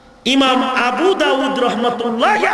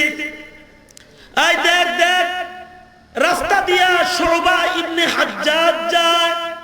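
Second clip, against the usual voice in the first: drawn-out, slightly raised hailing call; imitated shout; 3 semitones higher, much slower than usual. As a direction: mimic someone crying out a sighting, stretched slow. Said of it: "একজন একটা চিৎকার দিছে". (টেনে টেনে চিৎকারের নকল)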